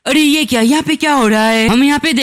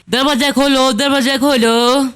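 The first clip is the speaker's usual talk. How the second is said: higher-pitched plea through a door, no real shout; understated door-side appeal in a raised pitch; mild calling out; 3 semitones higher than usual. Acted. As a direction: call lightly to be let in, pitched up. Voice from outside demands door opened.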